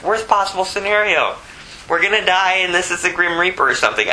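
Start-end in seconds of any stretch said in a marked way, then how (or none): 1.9-4.1 fast, higher acted panic; hammed-up terror, rushing the words; mock panic. Frightened disciples in the boat, fast mock panic. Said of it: "they're thinking the worst".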